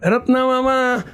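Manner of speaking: slow, high-pitched calling; drawn-out call. Retold or imitated. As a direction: stretch the name out, calling from afar. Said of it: "બૂમો પાડે".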